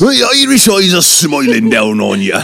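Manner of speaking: put-on playful stage-Irish accent. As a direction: sing it out in a mock Irish brogue. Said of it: "Well, Irish".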